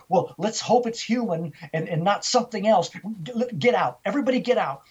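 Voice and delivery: snapped, urgent. Retold or imitated. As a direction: build to a high order to leave. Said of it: "He just snapped".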